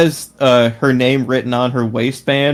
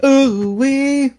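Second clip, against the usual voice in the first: excited whoop; 13 semitones higher than usual. Pretend. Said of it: "can I get an ooh-wee".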